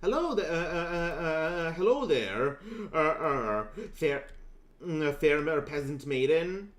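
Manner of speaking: a hint of a flustered knight greeting a maiden; courtly gallant. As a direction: play a halting would-be charmer. Greeting an NPC in character.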